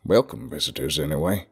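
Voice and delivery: lightly voiced Southern recluse; southern accent. A narrator's reading. Old Southern man to his guest, southern accent. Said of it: "the man replied in a southern accent".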